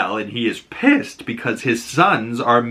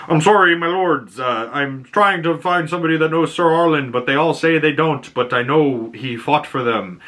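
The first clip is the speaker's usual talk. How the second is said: higher-pitched, earnest mock apology; higher put-on voice, explaining himself; imitating pleading knight; 5 semitones higher than usual. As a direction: plead as a humble hedge knight before lords. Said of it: "Dunk goes in and says".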